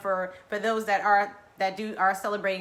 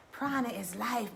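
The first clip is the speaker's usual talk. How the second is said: quieter, settled repeat of Prana is life; soft echo; 6 dB quieter than usual. Shown as a demonstration. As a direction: let it sink in gently. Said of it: "repeated loudly".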